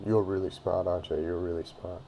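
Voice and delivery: low-key sarcasm, imitating a cop; understated retold sarcastic jab.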